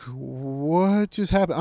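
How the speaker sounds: slow, stretched-out bewilderment; dazed disbelief. Retold or imitated. Retelling lying on the ground after falling, dazed and slow. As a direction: draw out the first word, puzzled.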